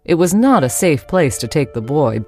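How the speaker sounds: ordinary talk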